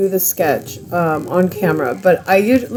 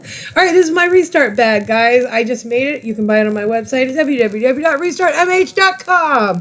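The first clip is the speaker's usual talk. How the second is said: higher, polished radio announcer read; radio host voice; 4 semitones higher than usual. Pretend. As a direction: pitch it like a radio ad. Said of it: "Did I sound like a radio show person?".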